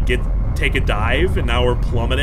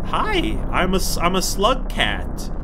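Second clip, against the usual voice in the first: cute greeting; 4 semitones higher than usual. Pretend. Greeting a giant being.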